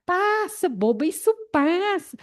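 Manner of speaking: mock a know-it-all comforter; lightly imitated condescending consoling; dismissive comfort. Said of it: "Não dá solução pra pessoa".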